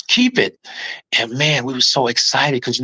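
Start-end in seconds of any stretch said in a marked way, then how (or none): 0.1-0.6 echoed approval. Retold or imitated. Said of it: "You heard what my brother said".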